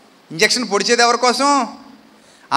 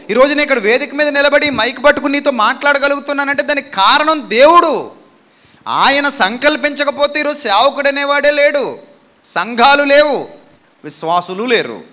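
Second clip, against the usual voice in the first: fervent preaching; 2 semitones higher than usual. Acted. Preacher crying out to God before the congregation, fervent. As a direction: preach it with full force to the church.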